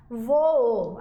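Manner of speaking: "Voo" with two Os, stressed VO then a second O; hiato pronunciado. Shown as a demonstration. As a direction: say "Voo" long, in two syllables. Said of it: "a gente não fala voo". ("Voo" em duas sílabas, vo-o)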